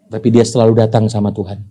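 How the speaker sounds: normal talking voice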